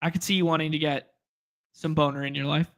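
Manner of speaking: deadpan, matter-of-fact delivery; straight-faced. Real, not acted. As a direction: slip the innuendo in without breaking. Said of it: "said it with a straight face".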